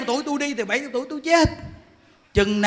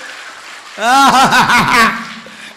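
loud, long burst of laughter; real, full-throated laughing; hearty laugh; 6 dB louder than usual. Real, not acted. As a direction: laugh out loud in a rolling run. Big laugh after agreeing with himself.

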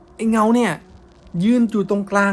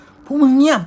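much higher, louder sharp yell; shouting; 10 semitones higher, 8 dB louder, slower than usual. Retold or imitated. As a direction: yell at everyone to shut up. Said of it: "ตะโกนขึ้นมาว่า".

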